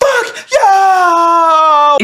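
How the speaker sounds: shrill, very high tearful scream, "you" drawn out. Describing the first time a girl screams at you: imitating a girl screaming. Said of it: "a girl scream at you".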